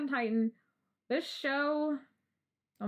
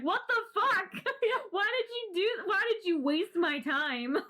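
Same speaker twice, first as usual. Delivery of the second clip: laughing exasperation; 9 semitones higher than usual. Retold or imitated. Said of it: "you're like".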